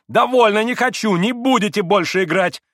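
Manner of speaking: high, loud, insistent; vehement refusal. A narrator's reading. Kolganov stopping Mitya's play, vehement shout. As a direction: forbid it at full voice.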